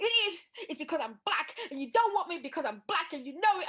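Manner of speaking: high, loud tearful protest; a five-year-old insisting through tears; crying child. Retold or imitated. Five-year-old confronting the headmaster, crying. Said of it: "I went".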